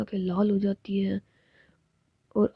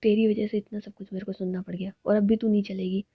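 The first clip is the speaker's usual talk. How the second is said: angry scolding; 4 dB louder than usual. Acted.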